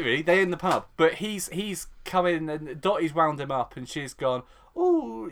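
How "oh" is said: teasing. Retold or imitated. Dottie winding Ian up, retold.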